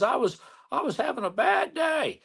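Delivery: put-on high, squeaky old lady voice; imitating the old lawyer. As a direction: pitch it up like the cartoon teacher. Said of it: "Jimmy Neutron's teacher".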